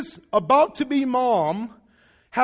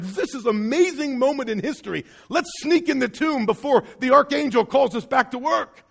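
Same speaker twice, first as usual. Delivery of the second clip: lightly acted, eager excitement; higher-pitched rejoicing; rejoicing angels; 3 semitones higher than usual. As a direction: celebrate like excited onlookers. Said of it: "like, rejoicing".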